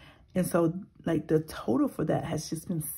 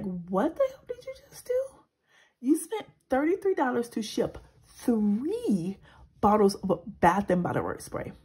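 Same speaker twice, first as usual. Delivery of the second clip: higher, then louder, exasperated self-scolding; scolding herself; 3 semitones higher, 3 dB louder than usual. Retold or imitated. Vlogger retelling how she scolded herself in the car, exasperated. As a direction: chew yourself out over a silly mistake. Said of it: "I'm so angry at myself".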